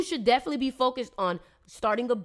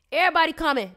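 excited call-out; 5 semitones higher, 7 dB louder, much faster than usual. Real, not acted. Announcing comments.

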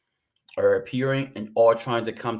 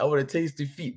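a lightly put-on Scottish accent, slightly higher; 5 semitones higher than usual. Doyle answering the pastor in a light mock Scottish accent. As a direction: imitate Doyle's Scots brogue, lightly. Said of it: "But in, like, a Scottish accent".

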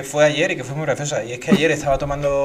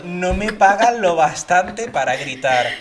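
bored announcer; 5 dB louder, much slower than usual. Retold or imitated. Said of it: "los leía ya como con desidia".

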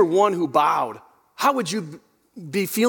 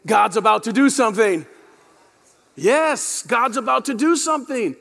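like you mean it; 2 semitones higher than usual. Shown as a demonstration. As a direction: hit "do" and mean every word. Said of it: "say it like you mean it".

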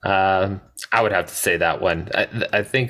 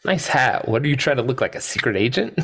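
mock Nedry; 13 semitones higher than usual. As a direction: needle him in a high squeaky mocking voice. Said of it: "And he goes".

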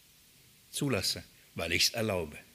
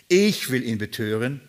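"Ich" set out firmly, the rest lower; stress on ICH; 4 semitones lower than usual. Shown as a demonstration. Spirit answering the Lord's question, stress on "Ich". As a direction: put the weight on the opening "Ich". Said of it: "Die Betonung ist auf ich".

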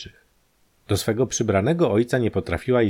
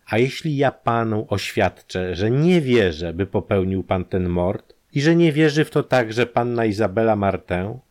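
each word weighted, voice held down; lowered, every word stressed; 3 semitones higher, 3 dB louder than usual. Acted. Detective presses the prisoner, each word stressed. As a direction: lean on every word deliberately. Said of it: "Zniżając głos i akcentując każdy wyraz".

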